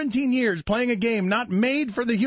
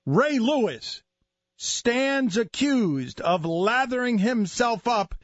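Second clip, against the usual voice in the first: hammed-up breaking-news delivery with weighty pauses; measured, theatrical radio monologue; mock-dramatic newscast.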